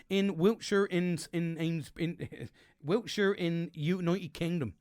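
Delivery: put-on slow, drawn-out Wiltshire accent; a light rural Wiltshire accent. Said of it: "trying to talk in a little Wiltshire accent".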